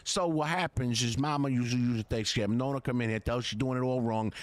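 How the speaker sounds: put-on mild New York Italian Yankee accent, homey. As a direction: boast about mama's cooking in a light Yankee accent. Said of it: "That's not bad".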